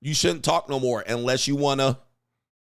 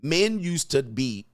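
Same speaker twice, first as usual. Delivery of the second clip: ordinary talk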